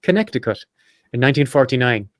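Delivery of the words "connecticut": Connecticut restated as kuh-NET-ih-kut; higher-pitched, tidy Connecticut, kuh-NET-ih-kut; correct pronunciation. Shown as a demonstration. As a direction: say Connecticut properly, stressed on NET. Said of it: "that's how you pronounce that".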